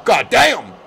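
loud, high burst of amazement; shocked exclamation. Real, not acted. Reacting to a wrestling slap, loud amazed shout. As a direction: blurt it out in shock.

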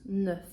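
NEUF with an O-like rounded vowel; NEUF leaning towards O. Shown as a demonstration. Teacher refining the vowel for learners, O-like NEUF. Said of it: "Але більше на О, ем, наголос".

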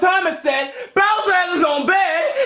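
indignant whining complaint; outraged that he's left out; playing the victim. Chef complains others got beds.

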